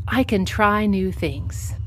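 slow, deliberate affirmation. Shown as a demonstration. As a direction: say each word slowly and clearly. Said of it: "And now say".

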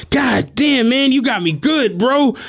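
imitating boy. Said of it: "This motherfucker was like".

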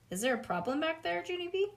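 high, quick teacher's query; teacher checking on a child; teacher calling out. Acted. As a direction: call to the back of the room.

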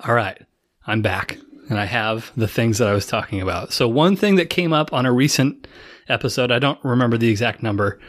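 winded after a sprint; out of breath. Real, not acted. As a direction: talk while catching your breath. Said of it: "I have to catch my breath because I sprinted".

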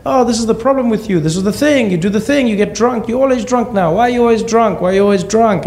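mock mother's shrill telling off; imitating mom shouting. Mom yelling at drunk husband, high mock shriek. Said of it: "she started to shout at him".

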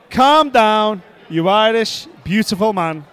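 loud opening, easing into a drawn-out finish; exaggerated diplomatic correction of himself; mock politically correct. Podcaster retells answering the Irish spectator, mock politically correct. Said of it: "I was obviously politically correct".

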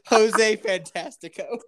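slow, laughing mock Spanish name. Friend riffs on the episode title, laughing mock Spanish. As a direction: savor the made-up title with a laugh. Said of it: "a Spanish way".

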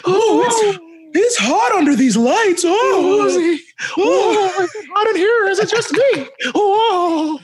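high, laughing, overheated preacher; hammed-up preacher. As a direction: ham up a sweating little preacher. Hammed-up sweaty child preacher in suit.

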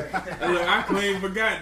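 laughing while admitting he forgot; chuckling through the words. Real, not acted. Laughing at forgetting topic.

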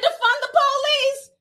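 high-pitched, mocking yell; mock screaming. Jeering at her for demanding defunding, mock screaming. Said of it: "all that screaming".

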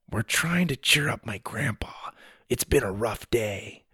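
soft, hushed aside; whispered confidence. A narrator's reading. Boy confiding in the man about grandpa, hushed. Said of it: "leaned closer to the man and whispered".

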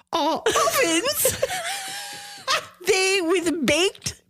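hammed-up Old English, high and slow; mock medieval accent, laughing through it; renaissance fair olde speech. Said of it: "speak in Old English at all times".

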